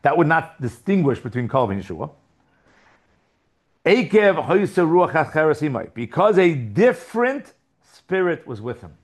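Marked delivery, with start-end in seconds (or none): 3.9-8.9 slow, deliberate verse reading. Shown as a demonstration. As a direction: read the verse out slowly and firmly. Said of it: "read the pasuk again slowly".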